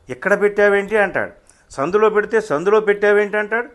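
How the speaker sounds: high-pitched, worked-up grievance; exasperated complaint. Acted. Acted complaint about hounding official. (విసిగిపోయిన ఫిర్యాదు)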